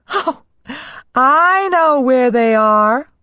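high, playful princess reply; lightly laughing princess voice; cartoon princess. A narrator's reading. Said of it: "she laughed".

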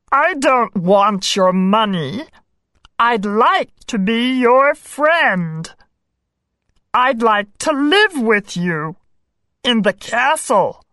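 earnest little frog voice; a gentle frog asking for friendship. A narrator's reading. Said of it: "said the frog".

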